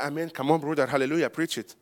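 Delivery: ordinary talk, nothing marked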